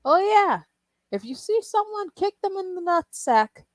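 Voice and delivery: mocking YouTuber voice. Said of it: "a guy that's talking and be like".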